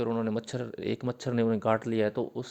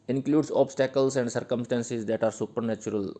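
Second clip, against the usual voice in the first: slow dictation; much slower than usual. Shown as a demonstration. Dictating English definition to students.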